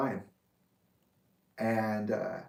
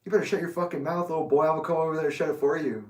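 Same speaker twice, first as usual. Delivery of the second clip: higher, hurried mock threatening; retold threat; 4 semitones higher, faster than usual. Big kid threatening the teller at camp, mock menacing. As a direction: imitate a teen picking a fight. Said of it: "He was like".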